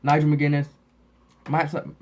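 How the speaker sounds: slushy lisp from braces. Real, not acted. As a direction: lisp through braces springs. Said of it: "gives me the worst lisp ever".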